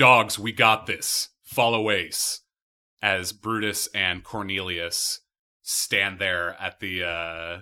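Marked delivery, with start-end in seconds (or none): 0.0-2.4 very loud, barked, rallying shout. Voicing Brutus calling down from the ramparts: shouting orders as Brutus. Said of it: "he shouts, it's Brutus".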